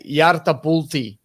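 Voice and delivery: drawn-out word in a light Italian accent. Real, not acted. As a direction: say it slowly with a hint of Italian. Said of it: "I put the Italian accent on".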